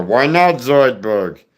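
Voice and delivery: slow cartoon voice from the back of the throat; throaty cartoon creature with a Jewish accent; Zoidberg. Shown as a demonstration. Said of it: "put it in the back of your throat".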